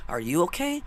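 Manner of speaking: soft, tender imitated question; gentle concern. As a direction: ask it softly, checking on someone hurting. Acting out her concern for him.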